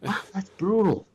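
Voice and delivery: high-pitched celebrity imitation; mock amazement in a high voice; playful high impersonation of wonder; Owen Wilson. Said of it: "That reminds me of Owen Wilson".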